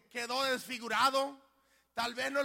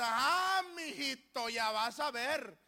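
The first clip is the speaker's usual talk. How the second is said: acted scolding warning, drawn out; mock parental threat; angry parent; slower than usual. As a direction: warn your child with slow menace. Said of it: "cuando esté enojado con él".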